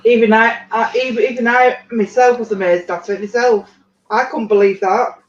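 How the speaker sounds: amazed. Real, not acted. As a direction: tell it with real amazement. Amazed at the kitchen scene.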